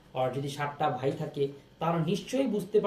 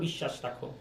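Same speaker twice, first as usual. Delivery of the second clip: whispered aside; 5 semitones lower, 9 dB quieter than usual. Acted. Teacher stressing tongue trust.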